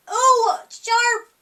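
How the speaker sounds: sudden high, loud yelp; yelled. A narrator's reading. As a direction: yelp it out as if pricked. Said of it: "and yelled".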